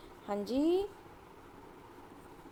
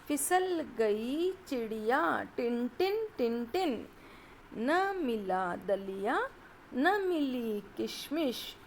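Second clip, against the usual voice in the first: put-on sing-song children's rhyme, partly slowed; lightly sing-song nursery verse; reading a rhyme. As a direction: read the little poem to young pupils.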